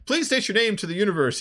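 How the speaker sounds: mock grand cartoon hero; Space Ghost voice. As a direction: announce it like a pompous superhero host. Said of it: "And Space Ghost is like".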